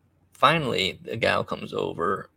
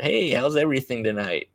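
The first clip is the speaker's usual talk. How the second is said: higher-pitched mock friendly hello; chirpy manager greeting; 4 semitones higher than usual. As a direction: imitate a manager greeting diners.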